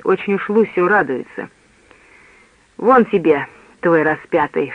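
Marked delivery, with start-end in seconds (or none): none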